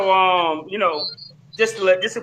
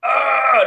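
mimicked drawn-out "ah", higher and louder; mock wail, raised pitch; imitated cry; 6 semitones higher, 5 dB louder than usual. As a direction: imitate a stuck man's wail. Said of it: "that's what he kept saying".

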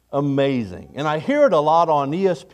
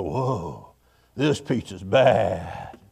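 impressed; 7 semitones lower, 5 dB quieter, much slower than usual. Shown as a demonstration. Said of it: "Or you could take a bite of pizza and go".

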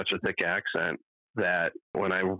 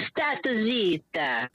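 mock Italian farewell; 12 semitones higher, much slower than usual. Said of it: "Then I'll high five him".

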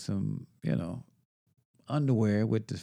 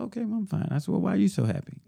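mock cheerful reply; 9 semitones higher, faster than usual. Mock cheerful replies to upset lady.

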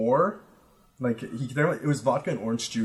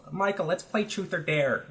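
higher-pitched, poorly faked Armenian accent; Raz, bad accent; 6 semitones higher than usual. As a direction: imitate a friend with an unconvincing Armenian accent. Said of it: "I can't make a good accent from him".

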